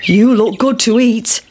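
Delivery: lightly voiced hungry sheep; the sheep eyeing the pancake; a hint of a sheep voice. A narrator's reading. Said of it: "said the sheep".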